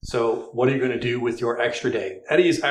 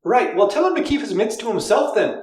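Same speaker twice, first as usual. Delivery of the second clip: put-on light Irish accent; 10 semitones higher than usual. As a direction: draw it out in an Irish brogue. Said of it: "You do the Irish voice".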